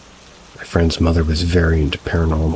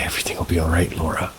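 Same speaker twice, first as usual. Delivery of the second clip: much softer, hushed reassurance; softly possessed voice reassuring her friend's mom; 5 dB quieter, faster than usual. Retold or imitated. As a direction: soothe her quietly, as if someone else speaks. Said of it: "Why did you say your name like that".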